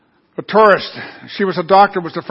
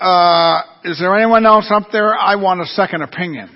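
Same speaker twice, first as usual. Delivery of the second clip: loud, raised call for anyone else; 5 dB louder than usual. Acted. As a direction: call upward, then settle into the punchline. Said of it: "Finally called out".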